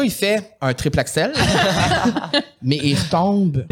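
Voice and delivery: laughing. Real, not acted. Laughing while telling cake story.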